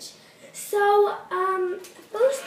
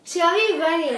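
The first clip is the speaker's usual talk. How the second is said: cheeks stuffed full; 4 dB louder than usual. Real, not acted. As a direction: mouth crammed with marshmallows. Saying it with marshmallows in mouth.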